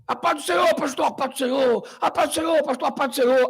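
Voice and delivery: eager pentecostal greeting. Retold or imitated. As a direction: greet the host pastor warmly. Members greeting imitated.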